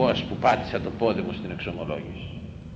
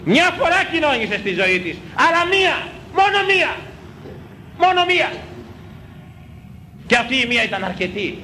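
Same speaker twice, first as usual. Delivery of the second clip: fervent preaching; 14 semitones higher than usual. Real, not acted. Preaching at full force.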